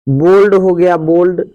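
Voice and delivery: "बोल्ड" with a full long o; straight o sound. Shown as a demonstration. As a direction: model "बोल्ड" clearly with the o said straight. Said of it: "ओ को ओ ही सीधा बोलते हैं". ("बोल्ड" में सीधा ओ)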